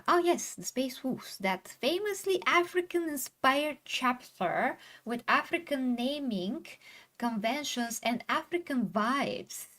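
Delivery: dripping sarcasm, mock praise; sarcastic. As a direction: read it with heavy irony. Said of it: "So this is sarcasm".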